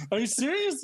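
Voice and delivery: high-pitched incredulous question; retold disbelief. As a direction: imitate stunned disbelief, voice jumping up. Retold disbelief at calm news.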